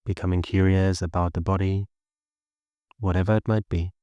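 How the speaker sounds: even, unhurried meditation guidance with long pauses; steady meditation voice, little pitch movement; guided meditation. Acted. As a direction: guide listeners gently into the body and breath.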